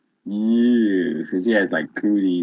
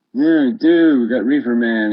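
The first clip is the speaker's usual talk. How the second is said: excited; 3 semitones higher, 5 dB louder than usual. Real, not acted. Spots Reefer Man in room.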